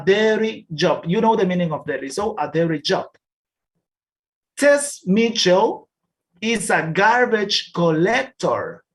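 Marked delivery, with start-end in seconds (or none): 4.6-8.8 slow, clear reading of a class text; slow reading aloud. Shown as a demonstration. Teacher reading a text slowly to the class. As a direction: read each word slowly for learners.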